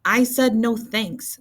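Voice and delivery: put-on slow, loud insistent child; Bean protesting. A narrator's reading. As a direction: defend yourself, stretching the words. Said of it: "said Bean".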